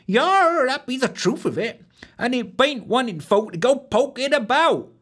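high country-maid voice with a West Country lilt; rustic wench. A narrator's reading.

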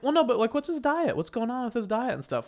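mock pushy clerk. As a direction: imitate a nosy clerk pressing with questions.

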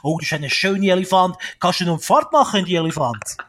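put-on high, loud cheerful children's TV host; kids show host. Imitates kids show host greeting.

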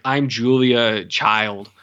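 slow, drawn-out mock introduction; stilted introduction. Doctor lady introducing herself to Rambo, mock stilted. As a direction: imitate someone announcing their name unnaturally. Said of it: "unnatural way to talk".

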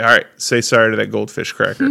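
half-laughing, mock-stern; stern order with a laugh leaking through. Real, not acted. Father retelling his order to his daughter: mock-stern words broken by a laugh.

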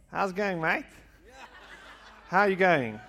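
loud, high mock Australian accent; breezy Australian-accented greeting. Shown as a demonstration. Speaker showing off for the crowd, hammed-up Australian accent. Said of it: "I can do some Australian".

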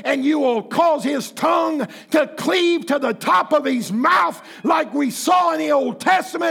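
angry prayer. Retold or imitated. Pastor retelling his fuming prayer against Johnny Depp, angry. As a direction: pray it like you want God to shut him up. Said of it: "Because I'm agitated, I'm angry".

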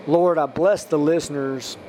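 measured blessing in an even tone; spoken prayer. Real, not acted. Podcast preacher blessing listeners country by country, prayerful. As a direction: pray down a list of places, evenly.

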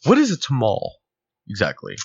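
a hint of a formal, proper customer voice; white black person voice. Customer politely corrects the vendor, lightly proper. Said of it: "your white black person voice".

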